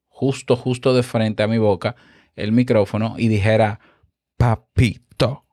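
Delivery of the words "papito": "Papito" said slowly with lips pressed to the mic; right on the mic. Shown as a demonstration. Podcast teacher demonstrating a pop up close, slow close-mic "Papito". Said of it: "pero yo me pegué al micrófono".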